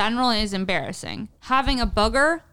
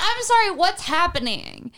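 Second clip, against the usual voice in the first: higher, drawn-out disbelief; mock bewilderment; 6 semitones higher than usual. Acting out her shock at her own body, mock bewilderment. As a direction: play it baffled, stretching the words. Acted quote of baffled reaction.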